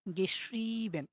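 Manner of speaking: গেশ্রিবেন with a long drawn ee; German word গেশ্রিবেন, vowel held long; long ee sound. Shown as a demonstration. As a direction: stretch the ee in গেশ্রিবেন. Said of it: "এরকম একটা টান হবে কিন্তু দীর্ঘের মতো".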